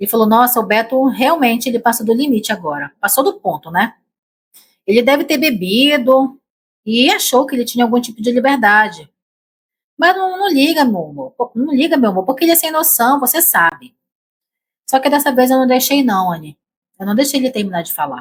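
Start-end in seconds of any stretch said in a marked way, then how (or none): 0.3-13.9 mock soothing, smoothing-over, downplaying, brushing-off tone. Retelling how her husband tried to downplay what happened: imitating husband downplaying it. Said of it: "tentar minimizar o que tinha acontecido".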